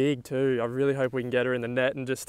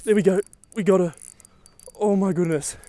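excited cheer; 4 semitones higher than usual. Real, not acted. Fish landed on the line.

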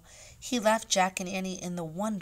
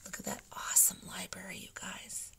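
hushed aside; 8 dB quieter than usual. Real, not acted. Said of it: "aside to listening children".

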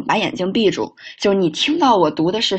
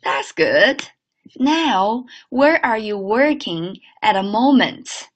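slow clear teacher read; careful model sentence; slower than usual. Shown as a demonstration. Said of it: "看下一句".

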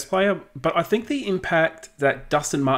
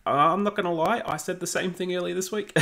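raised, half-laughed admission; giggling through a sheepish confession; laughing; 6 semitones higher, 4 dB quieter than usual. Real, not acted. Owning up to the co-host while laughing.

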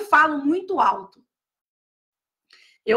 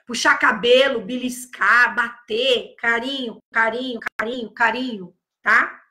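soothing redirection; 4 semitones lower than usual. Shown as a demonstration. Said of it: "models redirecting to gentle touch".

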